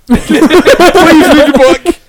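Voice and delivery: high, drawn-out mock plea; mock pleading. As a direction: plead slowly in a hammed-up high voice. Mock plea to a fellow believer.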